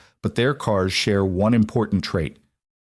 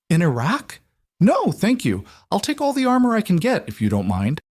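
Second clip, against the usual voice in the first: lightly voiced upbeat coworker, a bit higher; friendly chatty neighbour greeting Alec; cheery Waylon; 4 semitones higher than usual.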